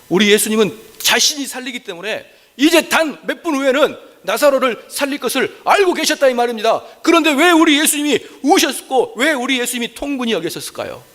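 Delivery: high-pitched, driving sermon delivery; impassioned preaching. Real, not acted. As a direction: preach it at full pitch, phrase by phrase. Preaching at full force. (높은 목소리로 열띤 설교)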